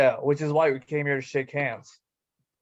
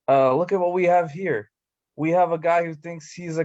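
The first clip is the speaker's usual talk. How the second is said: taunting heel; 4 dB louder than usual. Acted. Wrestler confronting rivals, retaken.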